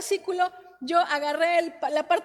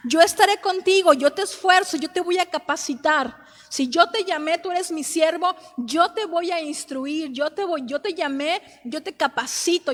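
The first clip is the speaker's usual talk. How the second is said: louder proclaimed verses, yo te stressed in each line; preaching at full force; 4 dB louder than usual. Acted. Wife preaching God's answer to her husband, louder. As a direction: declare God's answer over the devil's lies.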